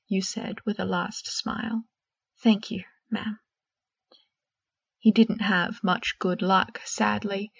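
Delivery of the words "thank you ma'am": hushed, timid schoolboy reply; whispered reply. Acted. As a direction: breathe it, a shy boy answering his teacher. Shy boy thanks the professor.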